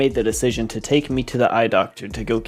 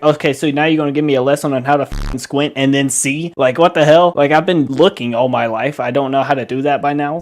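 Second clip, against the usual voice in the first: rising, louder sarcastic complaint; exasperated retort; 3 semitones higher, 5 dB louder than usual. Retold or imitated. Kid mocking parents' squint lesson, louder and exasperated. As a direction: push back in disbelief, getting louder.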